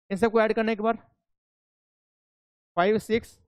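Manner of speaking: muffled behind a mask; through a face mask. Real, not acted. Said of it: "ये तो mask पहन रखा है ना, तो आवाज़ आती नहीं खुल के".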